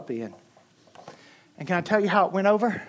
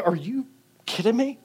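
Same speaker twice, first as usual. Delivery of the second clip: "are you", a silent gap, then "kidding me"; incredulous, leave a hole after "you"; pause for the unsaid cuss; 5 semitones higher than usual. Retold or imitated. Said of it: "They leave a pause where the cuss word should go".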